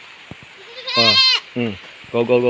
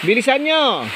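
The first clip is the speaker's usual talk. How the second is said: high calling out; 10 semitones higher than usual. Real, not acted. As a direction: shout them home through the rain. Calling goats in rain. (mataas at malakas na pagtawag)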